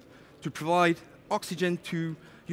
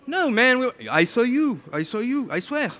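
higher, louder defensive denial; mock protest; 5 semitones higher, 3 dB louder than usual. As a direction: insist you didn't, voice up. Environment guy denies mocking.

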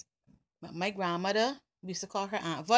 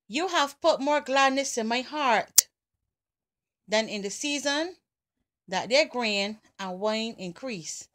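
scripture reading. Acted. Reads a psalm aloud.

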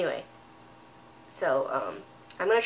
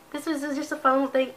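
congested; 5 semitones higher, faster than usual. Real, not acted. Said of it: "I know I sound really sick".

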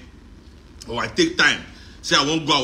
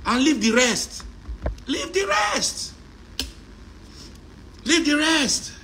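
mock solemn prayer; 11 semitones higher, slower than usual. Voicing prayer to ancestors.

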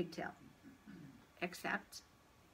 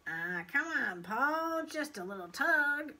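coaxing little tempter, rising higher; playful, persuasive urging; 5 semitones higher, 3 dB louder, slower than usual. A narrator's reading. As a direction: wheedle him into mischief. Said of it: "urged the pigtail".

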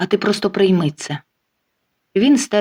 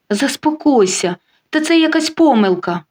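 pleading; 6 semitones higher than usual. Acted. Cheating man begs his mistress, pleading and rising high. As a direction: beg her to calm down, voice climbing. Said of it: "благає він".

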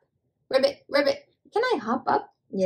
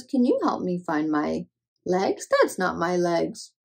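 lower, plaintive duck; lightly voiced duck asking for help; 5 semitones lower than usual. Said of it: "Duck says".

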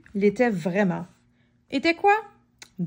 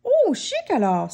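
delighted cry; 5 semitones higher than usual. Acted. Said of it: "s'écria Madame Dodu".

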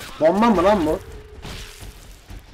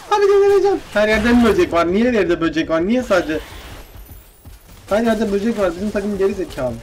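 shrill frustrated outburst, much higher and louder; exasperated yelling; 6 semitones higher, 4 dB louder than usual. Real, not acted. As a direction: lose it at the game. Frustrated gamer losing it.

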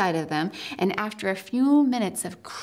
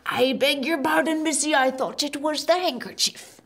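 muttering giant; 4 semitones higher than usual. A narrator's reading.

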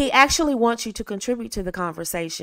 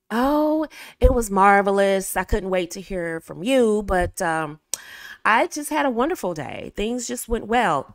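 upbeat and engaging. Shown as a demonstration. Woman telling a man on the phone about her day, lively. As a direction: sound glad to tell him about your day. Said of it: "For example".

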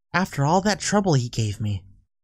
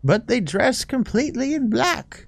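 lightly voiced grumbling old lady; a hint of a gossipy granny; 3 semitones higher than usual. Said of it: "give her old lady".

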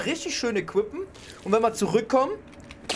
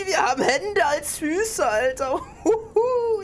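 disgusted laughing; 11 semitones higher, 4 dB louder, slower than usual. Real, not acted. Disgusted by mutant armor.

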